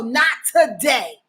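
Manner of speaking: a loud, firm "Not today"; firm refusal. Retold or imitated. To people crossing boundaries, a loud firm refusal. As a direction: shut them down hard.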